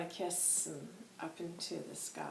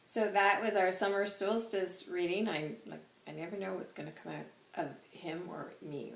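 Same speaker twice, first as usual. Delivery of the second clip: ordinary talk, nothing marked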